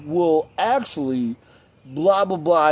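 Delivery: slow, drawn-out pedantic correction; mock know-it-all. Know-it-alls telling you they're right, mock pedantic drawl. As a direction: imitate a smug corrector, stretching it out. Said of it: "you have a soft voice".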